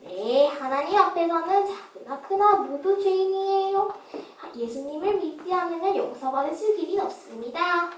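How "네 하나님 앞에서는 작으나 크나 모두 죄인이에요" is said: earnest raised voice. Acted. Beggar preaching to rich man.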